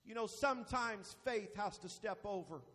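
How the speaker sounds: low, soft reflection after the peak; subdued pulpit aside; hushed preaching. Real, not acted. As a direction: drop down and muse gently. Quiet reflection after climax.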